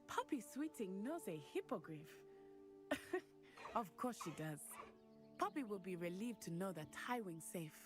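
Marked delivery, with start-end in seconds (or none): 2.1-3.2 light, breathy little laugh; a brief amused chuckle; short chuckle. Acted. Amused at Poppy knowing a hippogriff, a short chuckle.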